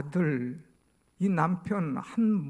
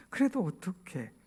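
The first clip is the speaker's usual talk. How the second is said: normal talking voice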